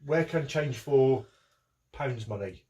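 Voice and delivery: slow, loud fake Eastern European accent. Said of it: "a fake accent and say".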